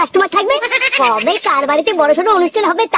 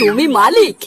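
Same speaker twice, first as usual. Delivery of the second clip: shout; 6 semitones lower, slower than usual. Acted. Customer doubts the owner.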